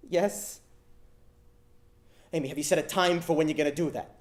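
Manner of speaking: high, tiny, reluctant answers; small scared yeses. Acted. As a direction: admit each step in a small high voice. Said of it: "young, scared voice".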